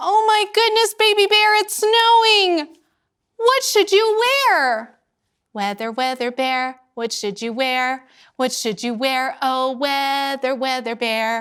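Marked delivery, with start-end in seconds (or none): 0.0-2.8 very high, startled, gasping surprise. Dressing Baby Bear for the weather with the listener, noticing icicles; gasping.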